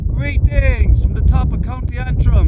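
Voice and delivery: high, loud Northern Ireland accent put on for the camera; a hillwalker greeting the camera in a hammed-up Northern Ireland accent. Hammed-up Northern Ireland accent. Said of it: "in a Northern Ireland accent".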